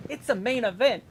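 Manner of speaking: high, loud mock excitement; mock excited fans. Fans hearing the sales pitch, mock excited cry. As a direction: imitate gullible fans crying out, hammed-up. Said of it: "some people hear it and go".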